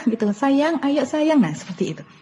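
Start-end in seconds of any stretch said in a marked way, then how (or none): 0.3-1.4 slow, high honeyed begging; drawn-out pleading coax. Shown as a demonstration. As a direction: stretch it out like a pleading mom.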